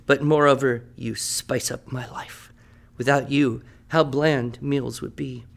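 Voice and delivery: grand, fond recital of an ode; poem recital. Acted. Teacher reading his ode to the jalapeno to the class, in a fond recital. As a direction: read it like a loving tribute poem.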